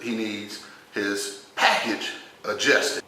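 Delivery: slow, with careful pauses before "package" and "adjusted"; hesitant euphemism. Retold or imitated. Nephew tiptoeing round it to the nurse, hesitant euphemism. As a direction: pick out "package adjusted" slowly and delicately.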